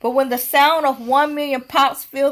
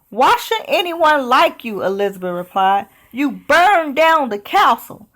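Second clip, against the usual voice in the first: challenging; 4 semitones higher than usual. Acted. Elizabeth challenges the dragon.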